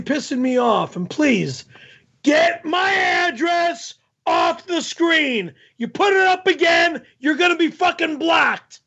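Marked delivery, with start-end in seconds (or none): 2.2-8.8 angry warning. Real, not acted. Warning viewers posting his address.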